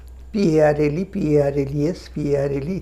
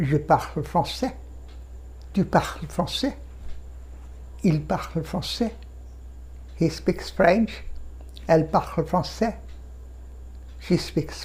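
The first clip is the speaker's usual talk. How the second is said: slow drill; 7 dB quieter, much slower than usual. Shown as a demonstration. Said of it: "আমি ফরাসি বলি".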